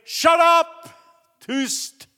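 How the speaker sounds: high, sudden bellow to silence someone; imitated shout. Preacher silences a crying woman before the congregation, imitated shout. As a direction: roar it as the preacher cutting her off. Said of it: "så ropade Hagin".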